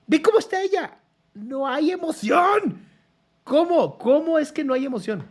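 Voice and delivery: high, loud and incredulous; loud, stunned disbelief at the clip; indignant outburst. Real, not acted. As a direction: call out her lack of feeling in disbelief.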